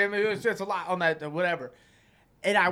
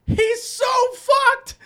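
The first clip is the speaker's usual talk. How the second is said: high, loud, drawn-out mock cackling cry; dying laughing, retold; 10 dB louder, much slower than usual. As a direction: squeal it slowly like a buddy in hysterics. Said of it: "my buddy's dying. His red face just crying".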